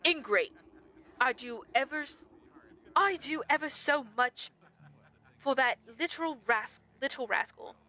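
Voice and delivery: pompous, aggrieved royal complaint; pompous prince. Acted. Prince complaining about his rascal brother, pompous. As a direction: grumble grandly about disrespect. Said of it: "absolutely most pompous voice".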